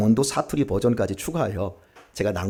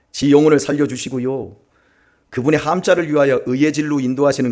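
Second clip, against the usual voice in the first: Psalm in homey Chungcheong dialect, louder as it goes; 4 dB louder than usual. Shown as a demonstration. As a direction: read it in folksy Chungcheong speech, building in volume. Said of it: "충청도입니다".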